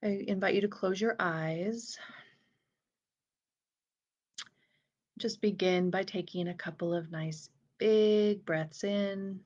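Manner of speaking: unhurried breath cues, stretching key words and leaving space; guided meditation. Real, not acted. Inviting listeners to breathe fully in and out, guided meditation.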